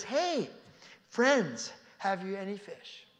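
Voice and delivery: calling out. Acted. Jesus calling from the beach to the fishermen, calling out. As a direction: call out to the boat from the shore.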